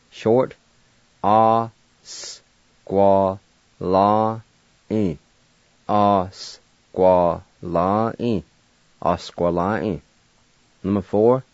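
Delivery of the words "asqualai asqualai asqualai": "Asqualai" as as-kwa-lai, stretched out first; slow, careful Cherokee demo; Cherokee word asqualai. Shown as a demonstration. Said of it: "And now I'll pronounce these words".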